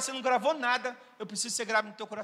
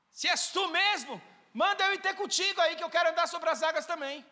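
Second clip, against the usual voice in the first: lightly voiced eager Peter; 4 semitones higher than usual. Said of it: "Eu já fui Pedro".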